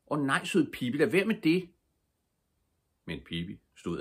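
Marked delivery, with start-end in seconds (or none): 0.1-1.7 pleading. Acted. Children plead, Pibi on edge.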